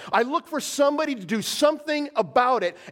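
a lightly voiced grieving God; God astonished. God in Isaiah seeking someone to intervene, astonished. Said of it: "he goes".

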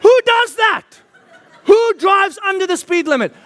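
high, loud comic disbelief; baffled outrage, pitched right up; incredulous. Real, not acted. Mock outrage at slow drivers.

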